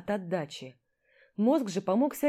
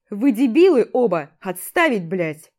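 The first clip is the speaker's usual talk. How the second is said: commander's yell; 10 dB louder than usual. Acted. Commander runs up and yells at the brawlers, loud barked order. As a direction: roar at both to stop. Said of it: "заорал наш командир, подбегая".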